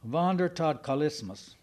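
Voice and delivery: Wandertodkalismus said firmly, with a German v; said with authority. Shown as a demonstration. Preacher proudly repeating the German word, with authority. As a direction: state Wandertodkalismus as if you own the word. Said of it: "You say it fast and with authority".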